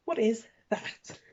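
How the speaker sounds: drawn-out flat disbelief; slow disbelief. Real, not acted. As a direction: say it slowly, unimpressed. Repeat, slower.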